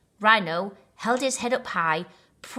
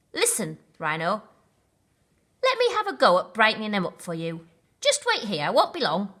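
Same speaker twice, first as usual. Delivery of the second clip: eager baboon; 4 dB louder, faster than usual. Acted.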